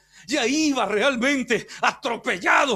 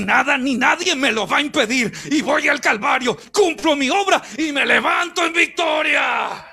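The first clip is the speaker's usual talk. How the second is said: louder, determined proclamation; defiant declaration; 3 semitones higher, 5 dB louder than usual. Retold or imitated. Preacher voicing Jesus rebuking Satan, growing loud. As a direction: refuse to be stopped. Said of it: "Apártate de mí, Satanás".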